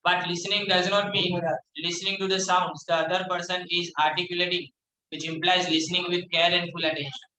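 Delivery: reads the English line out word by word, very slow; slow classroom read-aloud; slow textbook reading. Acted. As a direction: dictate it slowly to the class.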